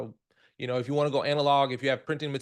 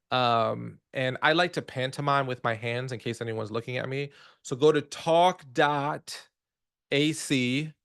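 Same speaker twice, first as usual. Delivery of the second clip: slow repeating. Shown as a demonstration. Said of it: "So I'll repeat it a few times".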